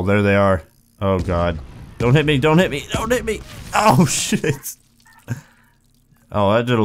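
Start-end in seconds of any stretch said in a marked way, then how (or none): 2.0-3.4 high-pitched, hurried pleading, rising further; panicky plea. Real, not acted. Player begging the cannons not to hit, panicky. 3.8-4.8 high startled yelp breaking into laughter; startled cry. Real, not acted. Player hit by a cannonball, startled cry.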